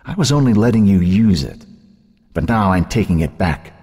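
high-pitched taunting claim, lightly acted; possessive taunt. A narrator's reading. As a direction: lord it over your sister. Sister taunting her, claiming everything.

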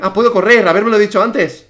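high, loud outburst; agitated gamer complaint; exclaimed realisation. Real, not acted. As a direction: blurt out a late discovery indignantly. Sudden discovery while being chased.

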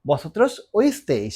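very slow, every syllable spelled out; slow repeat. Shown as a demonstration. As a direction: drag it out for learners. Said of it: "তোমরা শুনেছিলে". (খুব ধীরে, প্রতিটি অক্ষর আলাদা করে)

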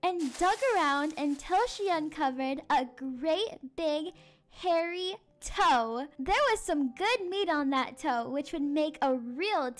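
expressive Halloween storytelling; story narration for children. A narrator's reading. Teacher reads a spooky, silly tale to children, storytelling. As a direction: read it aloud to a listening class.

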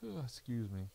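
words stretched by a yawn. Real, not acted. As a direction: let a yawn take the words. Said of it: "I'm so sorry I'm yawning".

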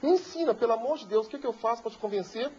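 high, pleading plea of the crying madame, lightly voiced. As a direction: beg him as the tearful Frenchwoman, high. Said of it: "Ela começou a chorar e falou". (súplica chorosa da madame, voz aguda)

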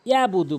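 ইয়াবুদু with no ayn; smooth open "yaa-budu"; common mispronunciation. Shown as a demonstration. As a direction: glide through ইয়াবুদু without a throat catch. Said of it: "ভুল হচ্ছে যে".

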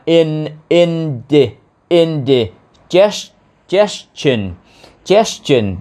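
"indigestion" built up in pieces: in, indi, indigest; piece-by-piece pronunciation. Shown as a demonstration. Teacher showing learners how to read it, piece-by-piece pronunciation. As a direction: sound out "indigestion" in separate chunks with pauses. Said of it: "đọc là".

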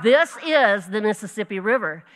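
brother to sister in the puddle, insisting loudly; loud, emphatic retold claim; mock insistence. Brother convincing his little audience of one, mock-insistent.

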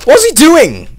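shrill cartoon squeak; squeaky high mock voice. Gamer mocking the enemy worm in a squeaky voice. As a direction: ask it in a tiny squeaky voice.

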